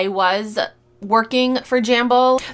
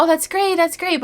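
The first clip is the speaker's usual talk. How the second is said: mock enthusiasm; 9 semitones higher than usual. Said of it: "some people are like".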